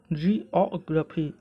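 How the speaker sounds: जियोग्राफी slowly blended as jee-aw-gruh-fee; careful, slow model of जियोग्राफी; sounds joined up. Shown as a demonstration. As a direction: join the pieces of जियोग्राफी, slowly. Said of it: "आप सबको मिलाकर बोल सकते हैं".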